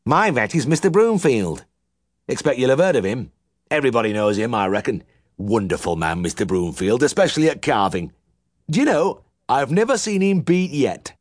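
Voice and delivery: put-on high Yorkshire old man bragging; boastful old farmer. A narrator's reading. Old uncle boasting to the young vet, high twang. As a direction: sing the praises of his own vet.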